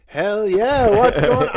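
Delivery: loud, high overeager hell yeah; eager bro. Retold or imitated. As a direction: jump at it like a keen party guy. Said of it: "I'm like".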